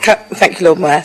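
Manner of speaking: hoarse, croaky throat. Real, not acted. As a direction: speak through a croaky voice. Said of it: "Sorry about my croaky voice".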